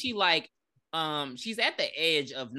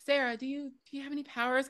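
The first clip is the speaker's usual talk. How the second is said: mocking high question; 9 semitones higher, 4 dB quieter, faster than usual. Asking a character.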